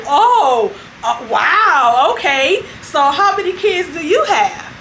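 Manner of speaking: a mock wow with laughter; laughing disbelief. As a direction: laugh through the question like amused women. Women react amused.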